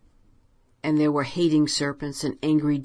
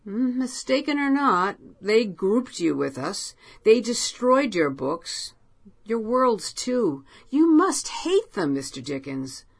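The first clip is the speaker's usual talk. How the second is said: Poe voiced higher and pressing; Poe urging; 7 semitones higher than usual. A narrator's reading. Poe goading Dickens to hate Earth, higher and pressing. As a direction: lean in, needling him toward hatred.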